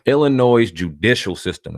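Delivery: careful, emphatic articulation of "Illinois' judicial system"; deliberately slow. Real, not acted. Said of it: "I gotta say that slow".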